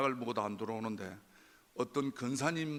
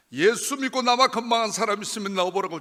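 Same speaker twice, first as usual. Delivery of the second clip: loud, higher angry yell at heaven; shouting at the sky; 7 semitones higher, 13 dB louder than usual. Retold or imitated. A despairing believer yelling at God from the mountain road, furious shout. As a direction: hurl the words up at the sky in a full shout. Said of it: "제가 소리를 질렀습니다".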